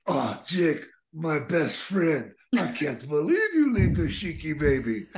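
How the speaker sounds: lightly voiced hurt Sheik, slow at first; a hint of wounded accented friend; Sheik's plea. Sheik walking up to Jake, mild hurt pleading. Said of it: "and he says".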